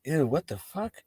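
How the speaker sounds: high, disgusted gossip. Retold or imitated. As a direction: sneer at old classmates. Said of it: "you're just like".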